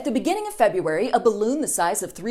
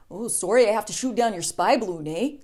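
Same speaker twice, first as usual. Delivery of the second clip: mock Canadian accent. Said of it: "Canadian Air Force would have been like".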